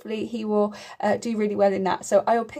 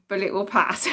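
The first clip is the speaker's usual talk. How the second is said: laughing. Real, not acted. Joke about kidney stone.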